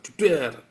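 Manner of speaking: sudden "jeder" slam sound; imitated bang. Preacher shows how he slams the table, imitated bang.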